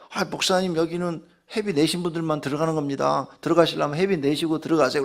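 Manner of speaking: mild imitation of an apologetic gatekeeper; polite staff member. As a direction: politely explain the rules to an upset guest. Staff member explaining fee to pastor.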